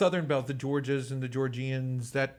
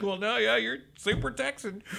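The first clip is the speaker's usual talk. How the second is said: higher, teasing obvious answer; playful teasing reply; 11 semitones higher than usual. Retold or imitated. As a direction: tease him as if it's obvious. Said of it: "And I was like".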